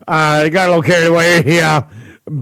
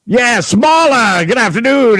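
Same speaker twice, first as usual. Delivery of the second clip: sugary greeting; 5 semitones higher than usual. Acted. Fake-sweet voicemail greeting.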